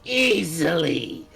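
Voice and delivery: slow, lightly voiced cocky boast; a touch of smug bravado, slowed right down; Robbie's cocky boast. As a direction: drag it out like an overconfident hero, only a hint of a voice. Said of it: "You would just hear Robbie go".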